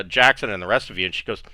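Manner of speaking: normal talking voice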